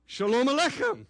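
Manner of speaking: "Shalom Aleichem" with a strong throaty ch in Aleichem; correcting a California accent with the Hebrew ch; proper Hebrew ch. Shown as a demonstration. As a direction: rasp the ch of "Aleichem" from the back of the throat. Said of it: "Very, very good diction".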